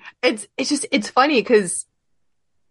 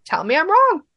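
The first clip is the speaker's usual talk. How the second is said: defiant challenge; 8 semitones higher than usual. Retold or imitated. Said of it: "I'm like".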